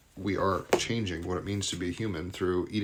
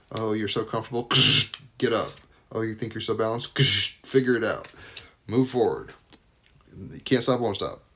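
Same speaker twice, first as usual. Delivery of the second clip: teasing, a bit louder, through laughs; playful taunting with laughs; mock taunt; 2 semitones higher, 4 dB louder than usual. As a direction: needle them to get moving. Voicing the card's taunts.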